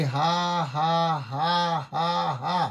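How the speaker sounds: short bursts of ha-ha; staged joyful laughter; holy laughter. Acted. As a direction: laugh it out on cue.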